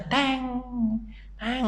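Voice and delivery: deflecting clang. Retold or imitated. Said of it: "Bapak tangkis ya".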